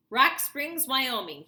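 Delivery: high, loud blurted answer; spit out. A narrator's reading. Brainy kid straining, blurting the answer. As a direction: spit it out in a rush. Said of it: "he spit out".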